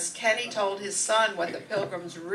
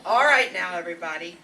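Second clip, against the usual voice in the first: louder call to hush the table; calling for attention; 4 semitones lower, 4 dB louder than usual. Acted. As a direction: raise the voice over dinner chatter. Wife calls the table to order.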